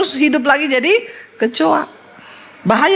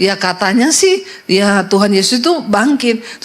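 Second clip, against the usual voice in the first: meniru jawaban ogah-ogahan, lambat; jawaban setengah hati; 5 semitones lower than usual. Retold or imitated. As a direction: menirukan orang Kristen ragu-ragu. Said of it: "Jangan jadi Kristen katanya". (ya katanya sih, nada malas dan lambat)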